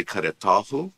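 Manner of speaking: karetahu stressed on ta, rising. Shown as a demonstration. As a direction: show karetahu with weight on ta. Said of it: "for example".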